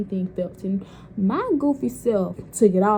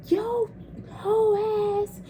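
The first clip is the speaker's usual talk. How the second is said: much higher, sneering auntie voice; scornful auntie; 12 semitones higher, much slower than usual. Retold or imitated. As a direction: spit the insult like the auntie. Auntie insulting her.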